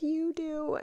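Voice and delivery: high-pitched imitation of a little boy; mock little-kid voice; small child's reply. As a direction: pitch it way up, like a toddler answering. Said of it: "And Riker's like".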